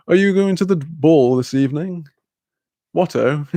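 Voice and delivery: lightly hammed-up upper-class British voice; posh toff. Streamer as a toff asking about the ball, posh toff. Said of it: "makes me feel, like, rather".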